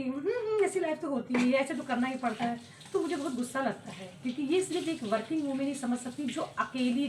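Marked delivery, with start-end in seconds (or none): 0.0-2.6 imitated know-it-all nodding along; dismissive mimicry. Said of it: "जब मेरी life से कोई बराबरी करता है".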